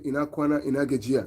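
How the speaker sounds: "Ina kwana, ina gajiya" said as a native Hausa greeting. Shown as a demonstration. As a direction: greet in Hausa, easy and natural. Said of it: "in Hausa, I'll say".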